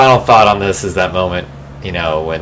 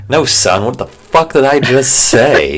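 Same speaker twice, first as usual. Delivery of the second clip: exasperated dad; 5 semitones higher, slower than usual. Retold or imitated. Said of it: "in my head I'm thinking".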